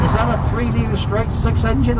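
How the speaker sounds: hint of a friendly Australian mechanic; Australian accent. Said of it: "in an Australian accent".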